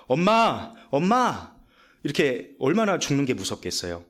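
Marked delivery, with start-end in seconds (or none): 0.1-1.5 frightened calling. Retold or imitated. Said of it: "두려움에 가득 차서 엄마를 그렇게 부르더랍니다".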